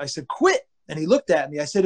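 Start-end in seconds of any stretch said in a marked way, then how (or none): 0.3-0.7 high-pitched, contained yell; re-enacted shout from the stands; retold scream. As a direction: cut him off with one sharp word. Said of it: "I just screamed from the".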